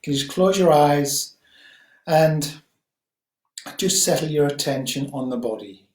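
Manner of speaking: calm, unhurried guiding voice with long pauses; guided meditation. Acted. Teacher guiding listeners to settle on the breath, guided meditation. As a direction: gently settle listeners, leaving space between phrases.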